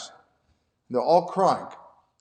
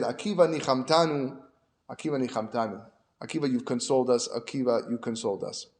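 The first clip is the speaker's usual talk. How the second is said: soft, lowered voice, settling further; acted hushed gratitude, fading softer; quietly consoled; 3 semitones lower, 5 dB quieter than usual. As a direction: let the relief sink in gently. Acted rabbis consoled, words repeated softly.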